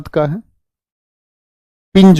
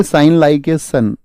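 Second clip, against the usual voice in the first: very slow drill; much slower than usual. Shown as a demonstration. Teacher dictating the mnemonic to students, very slow drill. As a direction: stretch each word out very slowly. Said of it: "क्या बोलोगे?".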